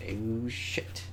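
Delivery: soft, drawn-out reaction under the breath; hushed dismay. Acted. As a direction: let it slip out quietly. Reacting to door closing on her.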